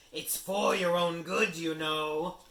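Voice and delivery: high, loud, slow mock piety; saintly Peeves. Peeves threatens to tell Filch, mock-saintly and high. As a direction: pretend to be dutiful. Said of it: "in a saintly voice".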